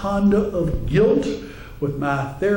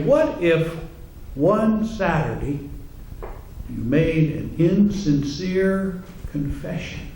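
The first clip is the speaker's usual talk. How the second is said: Father Clancy preaching. Retold or imitated. Priest warning his congregation about insincere confession, mock preaching. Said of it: "a little sample, and you'll be critical too".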